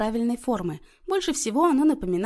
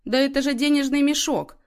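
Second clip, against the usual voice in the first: higher-pitched excited discovery; exclaiming; 6 semitones higher, 4 dB louder than usual. A narrator's reading. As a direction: exclaim it as a happy revelation. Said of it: "воскликнул Иннокентий".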